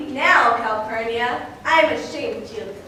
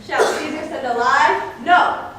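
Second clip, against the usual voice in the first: indignant refusal; 5 dB louder than usual. Acted. Caesar refuses to lie.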